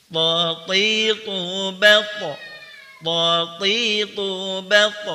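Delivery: half-sung, slowly drawn Tatitu bat; slow recitation drill. Shown as a demonstration. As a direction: sing the syllables slowly, bounce on bat. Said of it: "Kita berlatih".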